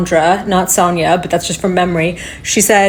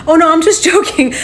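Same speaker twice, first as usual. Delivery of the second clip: higher, light retold voice with a laugh; joking; 8 semitones higher than usual. Woman telling officers she's kidding, imitated joking. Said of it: "it seemed like she was joking".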